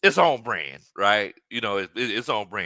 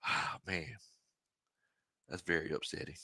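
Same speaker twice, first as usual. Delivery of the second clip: mock dejected Kirk; 6 semitones lower, 13 dB quieter than usual. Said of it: "Kirk Cousins hit him with the".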